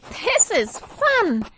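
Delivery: put-on high, loud, slow delighted girl; Zoe's voice. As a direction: beam with fun. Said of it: "said Zoe".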